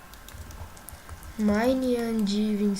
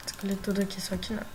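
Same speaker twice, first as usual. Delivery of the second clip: sarcastic; 2 semitones lower, 6 dB quieter, much faster than usual. Real, not acted.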